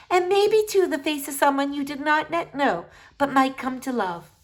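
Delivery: remember home with longing; wistful old doctor. Acted. Doctor remembering her girlhood in Blundermeeson, wistful.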